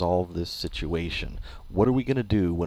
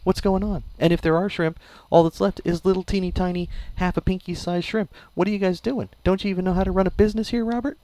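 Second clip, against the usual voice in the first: mock angry customer; 9 semitones higher than usual. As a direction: play the fed-up customer scolding the shop. Mock-angry customer complaint to manager.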